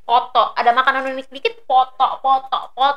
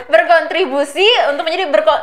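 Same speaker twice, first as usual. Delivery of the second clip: laughing. Real, not acted. Laughing while repeating.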